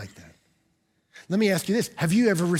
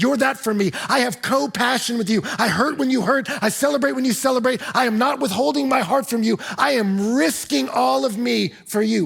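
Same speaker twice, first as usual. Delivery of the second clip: passionate, loud preaching; 5 semitones higher, 3 dB louder than usual. Retold or imitated. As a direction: preach Paul's words with full heart. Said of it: "Paul looks at the Thessalonians and says".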